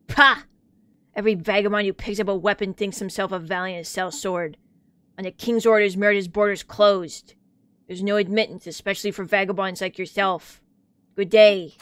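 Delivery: dismissive gatekeeper. Acted. Game guard turns travellers away.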